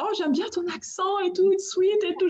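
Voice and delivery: high-pitched imitation of admirers; gushing compliment. People admiring her French accent, imitated as a high gush. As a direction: coo it quickly in a high voice, quoting fans.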